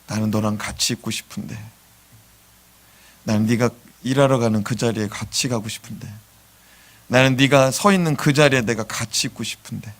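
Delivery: lightly voiced tender Jesus. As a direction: speak as a gently pleading Jesus. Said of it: "그럼 예수님이".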